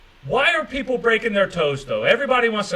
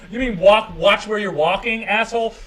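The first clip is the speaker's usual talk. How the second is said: sarcastic retort; 4 semitones higher, 5 dB louder than usual. Acted. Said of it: "louder sarcastic repeat".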